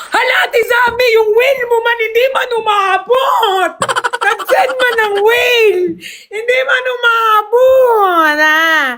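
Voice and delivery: high, drawn-out whine of dismay; whiny, high-pitched playful lament; mock-crying wail. Real, not acted. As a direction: wail the complaint, stretching each ending. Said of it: "I'm gonna cry right now".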